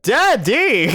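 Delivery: high, slow, drawn-out scream; terrified scream. Acted. Cole wakes from the nightmare, terrified scream.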